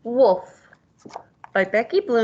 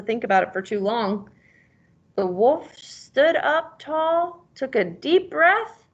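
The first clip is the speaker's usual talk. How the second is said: put-on reading to a child. A narrator's reading. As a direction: tell the tale to a young pupil. Teacher reads picture book aloud.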